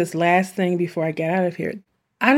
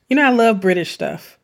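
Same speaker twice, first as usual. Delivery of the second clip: a light British accent, a touch louder; mock British accent; 4 dB louder than usual. Shown as a demonstration. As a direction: slip into a playful British accent. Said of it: "broke out in Old English".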